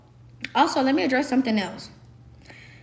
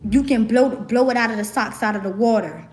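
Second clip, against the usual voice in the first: encouraging friend; 4 dB louder than usual. Retold or imitated. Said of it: "who was telling me".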